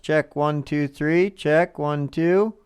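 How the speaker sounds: loud mic check counting. Real, not acted. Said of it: "Check, test".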